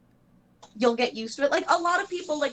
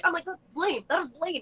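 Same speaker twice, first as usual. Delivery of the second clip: excited insistence; 7 semitones higher than usual. Retold or imitated. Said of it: "And then I was like".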